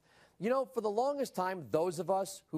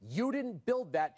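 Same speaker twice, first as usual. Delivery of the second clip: slow, higher-pitched mimicry of academic contempt; mock academic disdain; 4 semitones higher than usual. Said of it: "said with total academic disdain".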